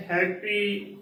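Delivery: "ਹੈਪੀ" said apart, hai then pi; correct pronunciation. Shown as a demonstration. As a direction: model "ਹੈਪੀ" as two clean syllables. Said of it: "ਹੈਪੀ ਬੋਲਣਾ ਹੈ".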